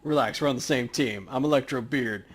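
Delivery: lightly voiced reassurance; calming tough guy. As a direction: talk the kid down. Player character reassures Paco.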